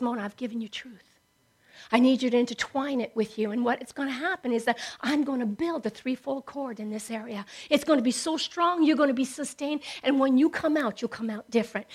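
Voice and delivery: soft, hushed, fatherly reassurance; gentle voice of God. Retold or imitated. God speaks softly to Mona, reassuring her. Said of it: "He says".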